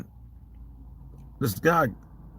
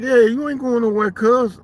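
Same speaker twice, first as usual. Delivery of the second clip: high, raised warning; loud threat; 13 semitones higher, 4 dB louder than usual. Retold or imitated. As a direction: raise it, stop him leaving. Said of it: "I was like".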